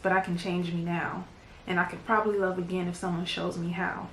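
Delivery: understated spoken-word delivery in measured phrases; poem recitation. Acted. Poet reads a pretty emotional poem to viewers, understated recitation. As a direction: recite it line by line, with restrained feeling.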